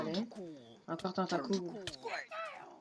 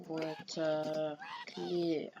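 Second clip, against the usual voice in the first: words read in a light English accent; 4 semitones lower, 4 dB quieter, much slower than usual. Shown as a demonstration. Reading a game command aloud in a light English accent. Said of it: "Avec un accent anglais".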